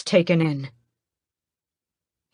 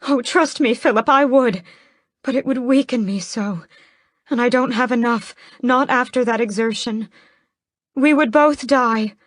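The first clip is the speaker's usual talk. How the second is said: scandalized; 7 semitones higher, 4 dB louder than usual. A narrator's reading. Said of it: "sounding scandalized".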